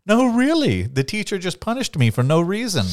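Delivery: a child pleading innocence to his dad, mock whiny; kid making excuses. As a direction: play the child swearing it wasn't their fault.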